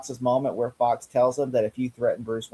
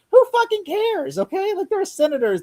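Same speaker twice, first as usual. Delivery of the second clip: exasperated outburst. Real, not acted. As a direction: drag it out in disbelief. Exasperated reply to Jim.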